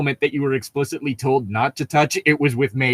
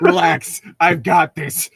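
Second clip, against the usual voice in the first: laughing quote; 5 semitones higher, 4 dB louder, slower than usual. Retold or imitated. Laughing while repeating the quote.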